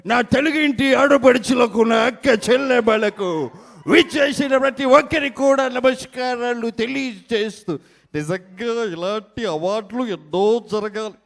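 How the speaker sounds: mimicked grand orator. Mimic salutes Telugu sisters, high declamatory voice.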